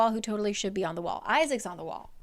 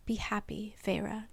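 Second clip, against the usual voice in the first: soft unvoiced farewell; quiet whisper; 8 dB quieter than usual. A narrator's reading. Tamlin saying goodbye to Feyre, whispered. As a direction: whisper it gently. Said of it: "he said quietly".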